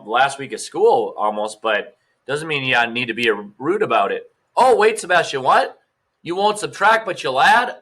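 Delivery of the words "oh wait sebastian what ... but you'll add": mock surprise. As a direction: pitch up in playful feigned shock. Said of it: "teacher pretends to be surprised".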